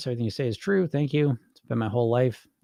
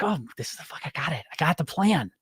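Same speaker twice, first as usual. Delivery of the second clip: mock smug dieter; 2 semitones higher than usual. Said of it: "on paper, it's like".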